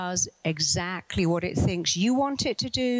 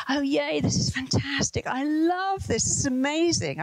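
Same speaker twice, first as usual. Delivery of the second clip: mock delight, pitched up high, on a scary ride; fake cheering; 7 semitones higher than usual. Mother on a wild ride fakes joy for her daughter, bright mock cheer. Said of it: "I, I really didn't".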